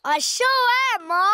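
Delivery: drawled cowboy twang; cowboy accent. Pretend. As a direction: talk like a Wild West cowboy. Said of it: "That's how cowboys speak".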